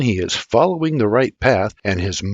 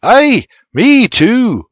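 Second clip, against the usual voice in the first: put-on much higher, slow small boy voice; little boy voice; 12 semitones higher, 8 dB louder, much slower than usual. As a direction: chime in like a little kid. Little brother voice.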